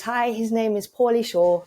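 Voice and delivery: lightly imitating an American Yankee; a hint of a Yankee accent. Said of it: "very Yankee accent".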